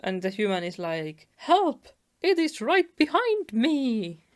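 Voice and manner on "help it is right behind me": high-pitched, louder cry for help; mock panic. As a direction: act out someone fleeing in playful terror. Fleeing human acted in comic.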